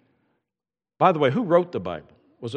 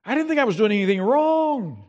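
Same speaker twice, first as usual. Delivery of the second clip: timid mumble; 9 semitones higher than usual. Retold or imitated. Driver nervously asking the officer what was wrong, timid mumble. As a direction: mumble it meekly at the officer's window. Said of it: "muster up the courage to mumble".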